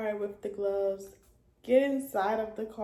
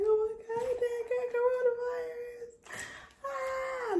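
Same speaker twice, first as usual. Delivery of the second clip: much higher, panicked cry; retold panic. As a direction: replay the shock of bad news. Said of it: "I was just so scared".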